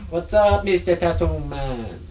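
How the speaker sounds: a hint of a Jamaican lilt, slow on the name; Jamaican accent. Real, not acted. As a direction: greet them in a light Jamaican accent. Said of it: "you said it with a Jamaican accent".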